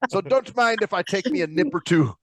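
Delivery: lightly voiced pirate; mild mock seafarer; pirate Lyft driver. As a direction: play a grog-loving pirate cabbie. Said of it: "a pirate Lyft driver".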